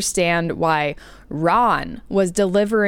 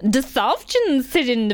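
white wedding voice; 6 semitones higher than usual. Pretend. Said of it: "in your white human wedding voice".

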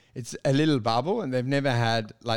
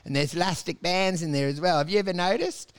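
uplifting stage comic; 5 semitones higher than usual. Retold or imitated. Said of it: "jumping around the stage going".

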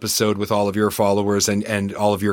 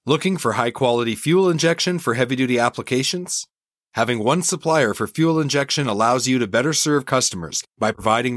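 chipper 1950s ad; 2 semitones higher than usual. Acted. Host reads sponsor ads.

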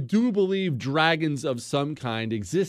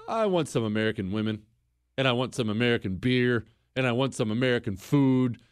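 mock whine; 4 semitones lower, faster than usual. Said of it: "just wanted to come back".

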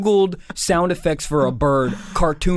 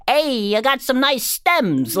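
catcalling guy; 9 semitones higher, much slower than usual. Retold or imitated. Catcall voice in wood.

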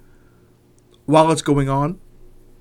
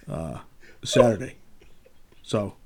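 whispering; 6 semitones lower, 6 dB quieter, slower than usual. Real, not acted. Trying to recall, drops voice.

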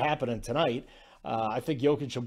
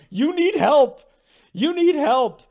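mock taunt; 11 semitones higher, 8 dB louder than usual. Jokic taunting Gobert, retold.

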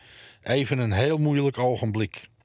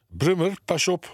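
sharp warning; 6 semitones higher than usual. A narrator's reading. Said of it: "waarschuwde de heer Reisema".

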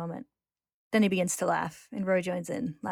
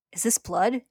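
cries out; 3 semitones higher, 4 dB louder, slower than usual. Acted. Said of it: "he cries out".

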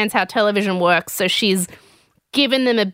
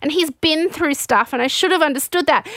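higher-pitched gushing retelling; imitating a guilt-stricken ramble in a raised voice; mock dismay; 5 semitones higher than usual. She feels bad because he cried, mock dismay. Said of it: "And so then she's like".

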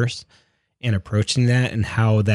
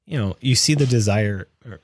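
hiccups; 2 semitones higher than usual. Real, not acted. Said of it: "I'm starting to hiccup like crazy".

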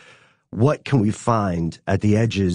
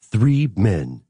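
movie trailer voice. Pretend. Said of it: "Can you do it in a movie trailer voice?".

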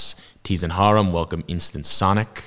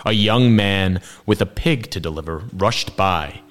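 story narration; 3 dB louder than usual. A narrator's reading. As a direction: narrate with weighty pauses. Reads the story aloud.

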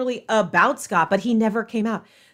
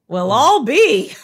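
Lorelai line quoted; 6 dB louder, slower than usual. Retold or imitated. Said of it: "I knew we were in for a ten out of ten".

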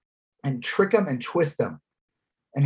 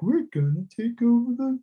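high, strained weird ranting voice; Alex Jones; 8 semitones higher than usual. Retold or imitated. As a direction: imitate a weird conspiracy host, pitched way up. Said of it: "Alex Jones does that weird voice".

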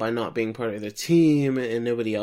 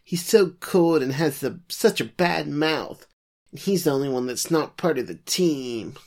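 put-on whiny girl; 3 semitones higher than usual. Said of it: "who says she doesn't like him".

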